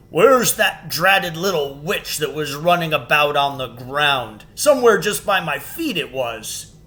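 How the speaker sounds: a bumbling giant looking round his feet. Acted. The giant asking about the witch, bumbling.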